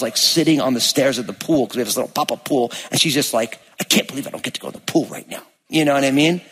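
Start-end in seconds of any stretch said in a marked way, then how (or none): 3.8-5.4 sulky whisper. Retold or imitated. Daughter sulking by the pool.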